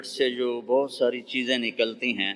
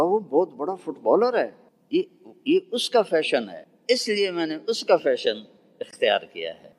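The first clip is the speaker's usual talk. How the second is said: put-on proud child; 5 semitones higher than usual. Boy explains his Messi haircut to the preacher, higher and eager. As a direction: show off a hero like a proud boy.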